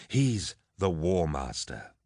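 slow, weighted words; insistent emphasis. Acted. Captain shoving the lord between phrases, insistent. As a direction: spell it out slowly and firmly.

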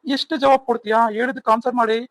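angry scolding. Acted. Husband scolds talking-back wife.

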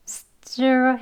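drawn-out stir sounding out the first syllable; syllable demo. Shown as a demonstration. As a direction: stir said slowly on its own. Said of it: "그러면".

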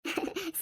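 short, quiet laugh; small amused chuckle; soft giggle. Acted. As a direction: giggle lightly before agreeing. Daughter-in-law amused by advice.

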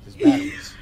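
loud excited announcement; excited shout. Real, not acted. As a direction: shout it out with joy. Finds batteries in the game.

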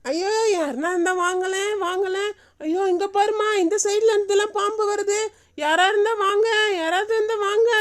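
high, anxious wail for help; calling for help. Acted. Grandmother calls anyone nearby as snakes approach, alarmed. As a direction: plead with whoever might hear. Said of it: "ஏன் ரெண்டு பேரும் இப்படி கத்துறீங்க".

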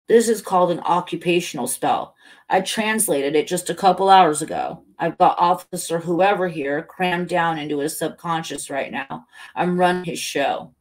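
lightly voiced boastful character; emphatic, pleased with their own scheme; Helen in cop's body. Helen explaining the spell through the cop, mildly boastful.

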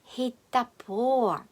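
"Хітапо" joined into one word, slowly; no break inside "Хітапо", long final "по". Shown as a demonstration. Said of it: "Вимовляємо як одне слово". («Хітапо» як одне слово)

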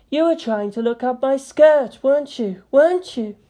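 insistent teasing accusation; accusing. A narrator's reading. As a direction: press the accusation twice. Accusing, repeated.

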